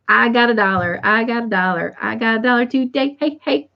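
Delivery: lightly chanted, repetitive singsong climbing at the end; a hint of a kid's gleeful chant; Little Rascals. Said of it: "I was thinking of the Little Rascals".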